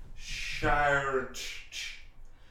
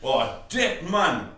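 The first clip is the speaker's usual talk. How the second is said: put-on Jamaican accent, easygoing. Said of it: "your Jamaican accent's so good".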